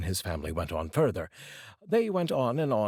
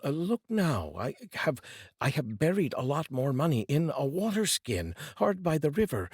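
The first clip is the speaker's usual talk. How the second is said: lightly voiced, higher, a touch knowing; sly poor brother; 6 semitones higher than usual. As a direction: bait the greedy brother kindly. Poor brother offers the buried skin.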